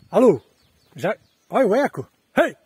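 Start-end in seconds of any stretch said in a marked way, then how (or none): 0.1-0.4 canyon echo. Real, not acted. Shouting to hear canyon echo. 2.4-2.5 canyon echo. Real, not acted. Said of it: "É um eco estranho".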